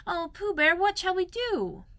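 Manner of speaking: high, slow, helpless plea; a small boy asking his bear for help; plaintive boy. Acted. Christopher Robin to Pooh, wondering how to save Piglet, high and plaintive.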